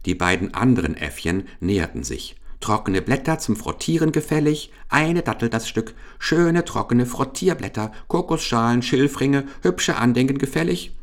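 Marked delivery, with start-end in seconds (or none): 2.6-11.0 high-pitched street-seller cry; little monkey peddlers. A narrator's reading. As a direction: call out your wares high and eagerly. Little monkeys hawking souvenirs.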